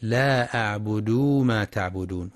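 أعبد with a long و after the د; wrong added u. Shown as a demonstration. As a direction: stretch the د of أعبد into أعبدو. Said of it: "يثبت واوا بعد الدال".

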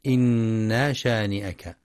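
إنا with the ن drawn long; wrong lengthening. Shown as a demonstration. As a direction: say إنا شانئك with a stretched ن, as a mistake. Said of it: "ويخطئ من يقرأ إنا بمد النون".

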